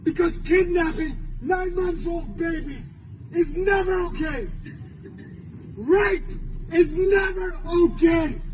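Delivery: real emotional outrage in a public speech; impassioned, overwrought condemnation; getting emotional. Real, not acted. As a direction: let the feeling rise through emphatic, broken-up phrases. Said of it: "I'm sorry I'm getting emotional".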